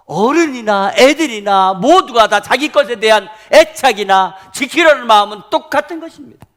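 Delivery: high, very loud pulpit cry; sustained, shouted sermon proclamation; full-force preaching. Real, not acted. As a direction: thunder it out to the congregation.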